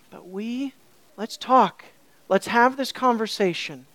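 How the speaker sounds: mildly softened invitation; gentle. Retold or imitated. Author shifting gears to talk with his readers, gently. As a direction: ease gently into a conversation. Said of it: "Oh, such gentleness".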